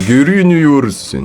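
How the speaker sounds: slow drawn-out anime-style reading. Real, not acted. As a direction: read it like an overdone anime dub. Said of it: "On dirait que tu fais une voix de, d'animé".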